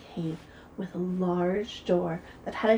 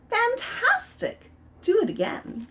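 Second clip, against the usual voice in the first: shout; 13 semitones higher, 4 dB louder than usual. Acted. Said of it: "but Elizabeth shouted".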